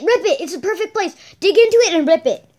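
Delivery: urging through laughter; laughing. Real, not acted. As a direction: laugh while egging him on.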